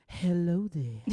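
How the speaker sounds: voiced greeting. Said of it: "all I hear is".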